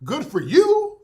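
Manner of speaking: loud, disbelieving challenge; incredulous demand. Real, not acted. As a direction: demand it, half-shouting.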